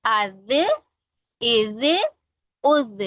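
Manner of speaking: अज, इज, उज said slowly and distinctly; drilling zaal with vowels. Shown as a demonstration. Teacher drilling letter sounds for children. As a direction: sound out अज इज उज one by one. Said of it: "किसी मखरज को उसका".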